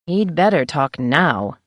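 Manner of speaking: slow and grim. Acted. Editor about the sheriff, grim and slow. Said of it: "I said grimly".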